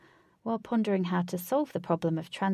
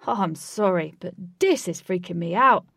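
freaked out; 8 dB louder than usual. Acted. Flash freaked out.

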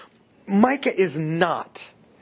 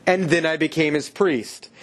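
slow, drawn-out boast with long pauses; lightly mocked self-important priest; telegraphing Levite; slower than usual. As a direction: spell it out slowly, showing what kind of man he is. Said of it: "telegraphs what kind of person he is".

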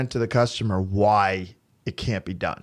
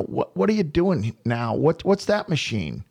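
put-on mildly whiny kid, slightly higher; whiny, nasally; 4 semitones higher than usual. Homeowner's son Samuel questions the workmen, lightly whiny and nasal. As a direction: imitate a nasally, whining boy. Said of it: "a little bit of a whiny, no, you know, nasally tone".

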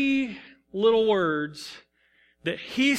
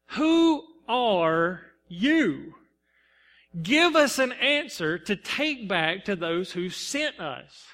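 slow, pointed questions from the priests; questioning Pharisees; much slower than usual. Acted. Pharisees demanding answers of John, slow and pointed. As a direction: draw out each question like a probing envoy. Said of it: "and they say".

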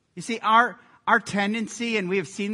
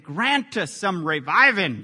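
light Southern preacher drawl; Southern Baptist drawl; 7 dB louder than usual. Shown as a demonstration. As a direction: read it with a Southern Baptist twang. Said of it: "Doesn't that sound Southern Baptist right there?".

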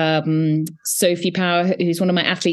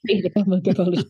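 nervous laugh; faster than usual. Real, not acted. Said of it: "It's a nervous laughter".

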